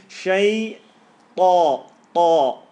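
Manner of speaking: "ta" punched hard and loud; a heavy emphatic "ta" like striking a drum. Shown as a demonstration. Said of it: "You're gonna learn ta".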